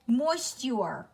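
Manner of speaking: "moisture" said as moist-yure, with a clear st and "your"; spelling pronunciation. Shown as a demonstration. Teacher showing the spelled sounds, "moisture" as moist-yure. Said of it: "So it's actually pronounced".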